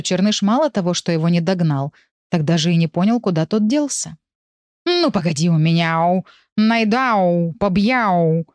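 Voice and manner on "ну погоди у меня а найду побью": meowed yowling threat; warlike howl. Acted. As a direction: yowl the threat like a tomcat. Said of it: "воинственно выл Черныш".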